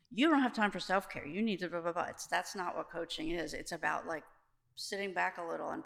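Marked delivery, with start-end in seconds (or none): 0.1-2.1 lightly mocked bossy advice; preachy lecturing. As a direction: tell them off like a know-it-all. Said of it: "I didn't tell them".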